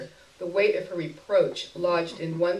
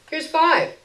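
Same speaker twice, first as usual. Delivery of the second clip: narrator's own voice; 9 semitones higher, 8 dB louder than usual. A narrator's reading. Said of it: "I said, removing a bill".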